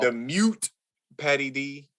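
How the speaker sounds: announcer-style sign-off; slow host outro, like closing the show; podcast outro. Acted.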